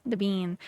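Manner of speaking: "bean" for bin, with a drawn-out ee; merged pin-pen vowel. Shown as a demonstration. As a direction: echo "bean" with a long Southern vowel. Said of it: "you might say, "Throw it in the bean".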